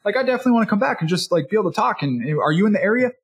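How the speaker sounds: high, fast, thrilled chatter; high excited rush of words; gushing customer. Retold or imitated. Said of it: "By the end of this, they'll be like".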